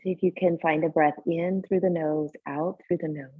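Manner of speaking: calm guiding voice with long, unhurried pauses; guided meditation. Real, not acted. Teacher settling a yoga class into tonight's practice, guided meditation. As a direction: ease them gently into breath and body awareness. Leads seated breathing meditation.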